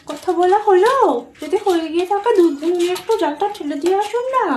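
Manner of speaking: high-pitched call to mother-in-law. Acted. Daughter-in-law asking mother-in-law to end the call, calling out. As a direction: call over with a pointed request.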